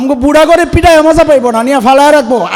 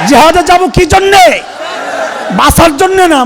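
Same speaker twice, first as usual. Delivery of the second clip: rousing shout; 5 semitones higher than usual. Real, not acted. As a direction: drive the point home with a shout. Preacher rousing the crowd.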